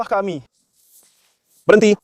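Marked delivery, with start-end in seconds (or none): 1.6-1.9 sharp yelled command; loud stop. Real, not acted. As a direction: bark stop loudly. Officer yelling stop.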